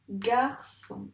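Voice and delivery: "Garçon" divided gar-çon; syllable by syllable. Shown as a demonstration. Teacher asking where S is, "Garçon" split in syllables. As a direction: let both syllables of "Garçon" stand apart. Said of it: "dans quelle syllabe on entend".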